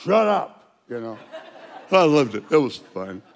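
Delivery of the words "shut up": snapped shut up. Retold or imitated. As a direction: cut them off sharply. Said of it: "bikers mouthing off".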